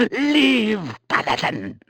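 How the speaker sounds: high, loud order to leave; commanding shout. Acted. Nupraptor ordering the paladin away, shouting. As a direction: throw him out with one word.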